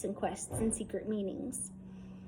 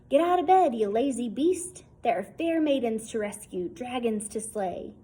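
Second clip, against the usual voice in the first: put-on eager boy calling out; 5 dB louder than usual. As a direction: rouse a sleepy friend like a tiny knight. Small boy's morning wake-up call.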